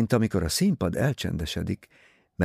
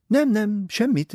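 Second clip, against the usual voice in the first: higher, louder gushing society lady; Mrs Otterborn's voice; 4 dB louder than usual. Acted. Vain novelist pressing her book on Poirot, high and gushing.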